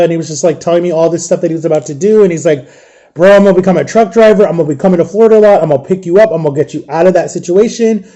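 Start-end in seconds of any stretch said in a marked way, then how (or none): 3.1-8.1 quick, eager rush of plans; excited retelling. Retold or imitated. Brother telling sibling all he's about to do, excited. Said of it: "so excited for this".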